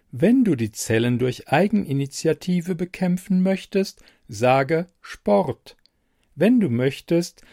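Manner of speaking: a helpful machine, evenly spoken; computer voice. Acted. Computer voice in story.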